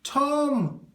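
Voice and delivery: high, loud sudden cry; name bursting out. A narrator's reading. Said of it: "said Tom".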